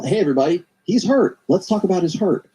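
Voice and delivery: high mocking call to the crowd, lifting to a peak on hurt; mocking announcement. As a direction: sarcastically announce his hurt to everyone.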